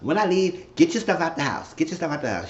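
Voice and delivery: very high put-on voice for the angry girlfriend; mocking high woman's voice. Imitating the girlfriend throwing him out, high mock voice. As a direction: play her up, high and huffy. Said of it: "She said".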